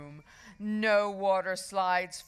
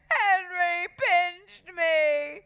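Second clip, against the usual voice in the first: high, loud, drawn-out tattling; hammed-up child's complaint; screamed wail; 11 semitones higher, 8 dB louder, much slower than usual. A narrator's reading. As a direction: wail it slowly like a hurt little boy. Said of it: "Perfect Peter screamed".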